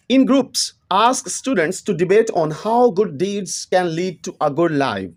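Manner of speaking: reads each English word slowly and deliberately; slow textbook reading. Acted. Teacher reading the book's English line to students, slow and measured. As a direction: dictate it word by word to the class.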